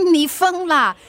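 laughing it off, flustered; embarrassed laugh. Acted. To her friend who says to ask him, an embarrassed laugh. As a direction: laugh and brush the idea away, slowly.

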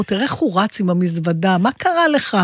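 mocking onlookers. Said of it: "הסתכלו ואמרו".

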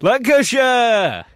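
high, loud, drawn-out mock battle cry; mimicked Lancashire shout. Host offering listeners the first accent, slow shouted Lancashire imitation. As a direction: belt it out like the Lancashire lad. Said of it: "Which accent is doing it for you?".

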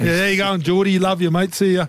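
high, chummy mock goodbye; retold cheery sign-off; retold friendly farewell. Retelling the repeated friendly exchange.

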